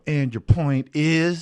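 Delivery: hand-on-hip attitude, mimicked; obnoxious sass. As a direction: imitate a bratty child's slow challenge. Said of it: "frankly, it's obnoxious".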